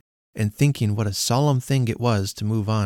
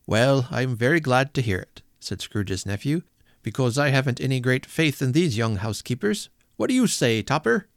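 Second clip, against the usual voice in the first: amused nephew; 2 semitones higher than usual. Acted. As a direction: make light of the money. Nephew figure voiced.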